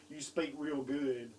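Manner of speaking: slow Southern drawl at an everyday pitch; understated, slow mock Southern accent; mock Southern therapist. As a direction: teasingly echo a Southern therapist, drawn out. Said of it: "I hope your speech therapist wasn't saying".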